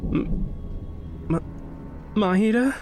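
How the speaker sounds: halting, desperate calls to a still friend; frightened pleading. Acted. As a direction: beg her to answer, breaking off. Friend unresponsive after shock.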